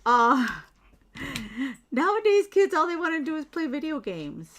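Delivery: put-on high, loud old lady grumble. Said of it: "I sound like an old lady".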